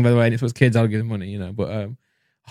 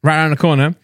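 ad read; 3 semitones lower than usual. Real, not acted. Reads the sponsor advert.

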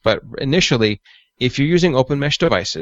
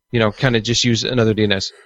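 ordinary talk

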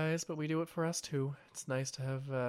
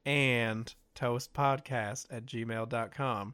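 slow, careful spelling out; much slower than usual. Shown as a demonstration. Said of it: "It's tea and".

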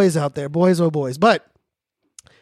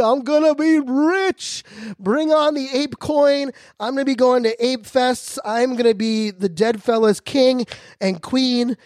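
high, slow, dreamy voice of greed; lightly hammed-up dreamy gloating; mock daydream; 5 semitones higher, slower than usual. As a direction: drift off into a rich-fantasy voice. Dreaming of getting rich.

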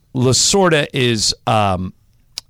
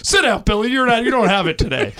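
Lasorda dismissal; 10 semitones higher than usual. Retold or imitated.

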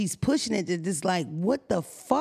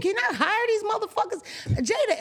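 mock amazement; 12 semitones higher than usual. Hyped mock amazement about Jada.

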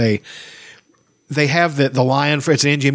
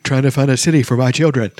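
quoting the movie. Retold or imitated. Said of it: "it's Rick Moranis".

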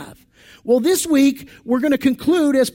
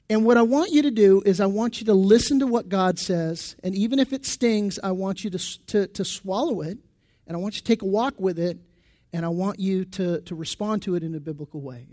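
softer, sincere pastoral appeal; softer heartfelt appeal to the congregation; earnest plea; 3 semitones lower, 4 dB quieter than usual. Real, not acted. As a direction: lower your voice and plead gently.

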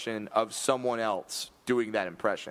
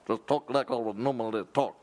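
Shaggy; 3 semitones lower than usual. Shown as a demonstration. Host follows co-host's coaching, rough Shaggy impression. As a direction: repeat the instruction in the put-on voice. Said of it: "then just talk like you normally would talk".

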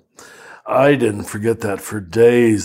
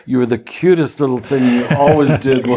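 put-on doting old nuns; faster than usual. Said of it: "they say".

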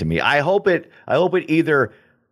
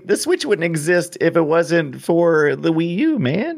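excited; 8 semitones higher than usual. Real, not acted. Arguing a point excitedly.

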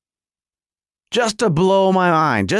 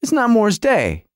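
mock disappointment. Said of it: "my brain goes".

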